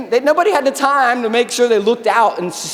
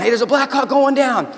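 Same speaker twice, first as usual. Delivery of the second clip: retold radio yell; 4 semitones higher than usual. Soldiers hearing the crash over the radio, retold yell. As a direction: call out the alarm in a restrained mock yell. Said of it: "you hear it just yelling".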